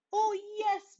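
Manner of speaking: high, bright recollection; sudden remembering. A narrator's reading. Brother suddenly remembering at breakfast, surprised. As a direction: pop it out as it comes to mind. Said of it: "suddenly remembering something".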